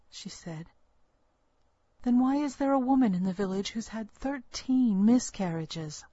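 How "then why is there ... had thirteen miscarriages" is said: demanding. Acted. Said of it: "I demanded".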